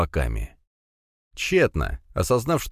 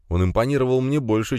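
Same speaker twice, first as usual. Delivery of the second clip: plain reading voice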